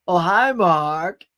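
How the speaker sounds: slow mock cheerful hi; iconic movie quote. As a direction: drag out the cheery hello. Quoting the movie The Room.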